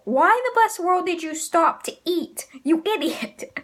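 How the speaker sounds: exasperated retold telling-off, pitch jumping up; mock scolding. Host voices Zoro berating Luffy for eating, mock scolding. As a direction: imitate an incredulous friend scolding.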